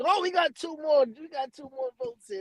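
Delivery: imitating the janky judge; mock announcer. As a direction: announce the late votes like a smug judge. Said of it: "The man declared".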